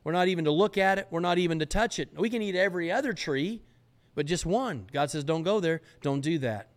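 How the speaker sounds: a hint of Eve, getting worked up; Eve insisting. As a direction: build from hesitant to insistent, climbing. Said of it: "And Eve responds".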